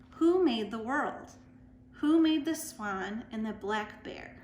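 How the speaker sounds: deliberate recitation, questions given emphasis; poetry reading. Acted. Reading a famous poem to story time listeners, emphatic recitation. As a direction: recite it line by line, leaning into the openings.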